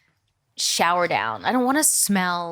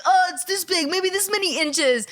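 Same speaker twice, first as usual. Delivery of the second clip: mock bragging; 9 semitones higher than usual. Retold friends' bragging, high.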